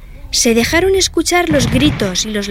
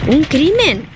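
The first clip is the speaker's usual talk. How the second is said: mysterious tone; 6 semitones higher, slower than usual. A narrator's reading. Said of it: "en tono misterioso".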